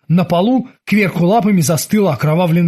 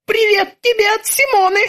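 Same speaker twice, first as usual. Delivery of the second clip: very high robotic voice; robotic terminator. Acted. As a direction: speak like a metallic machine.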